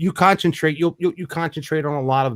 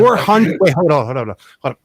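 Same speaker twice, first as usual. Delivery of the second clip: stunned disbelief; 6 dB louder than usual. Real, not acted. Host stunned by acreage.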